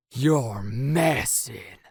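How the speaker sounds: slow, drawn-out suspicion; suspicious. Acted. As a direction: narrow it down slowly, doubting. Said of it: "acting suspicious".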